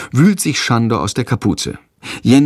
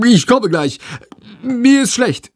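high-pitched, strained little excuse; boy feigning sickness; 13 semitones higher than usual. A narrator's reading. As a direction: call it out higher through the door. Boy lying through the toilet door. (Ausrede mit hoher Stimme)

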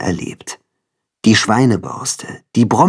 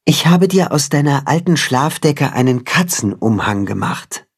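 lightly voiced tender cat, higher; cat mother voice; 4 semitones higher than usual. The cat tells Timme how she raised him, lightly voiced. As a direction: tell it like a caring mother.

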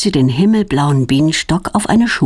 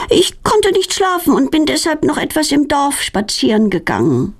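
feigned innocence; 7 semitones higher than usual. A narrator's reading. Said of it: "tut ganz unschuldig".

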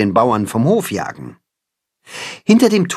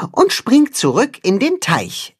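patient explanation; 10 semitones higher than usual. Acted. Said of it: "erklärt Max geduldig".

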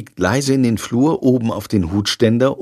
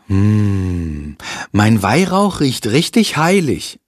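voiced boy; 2 semitones lower, slower than usual. Boy sniffs incense.

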